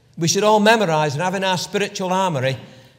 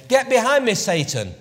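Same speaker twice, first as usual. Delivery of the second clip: stern rebuke; 5 semitones higher than usual. Retold or imitated. Jesus rebuking Peter, stern raised voice. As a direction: rebuke him like a scolding master.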